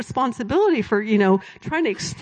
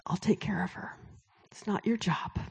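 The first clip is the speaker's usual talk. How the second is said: gentle reassurance; 8 dB quieter than usual. Retold or imitated. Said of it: "And he said".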